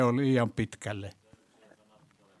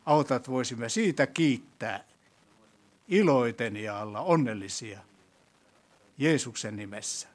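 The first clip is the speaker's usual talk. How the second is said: prayer. Acted. Leads closing prayer.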